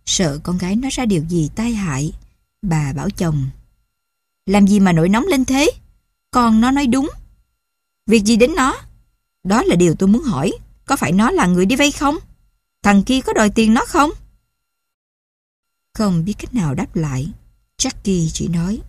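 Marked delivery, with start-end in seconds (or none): 4.5-14.1 defiant outburst. Acted. Wife defends daughter against husband.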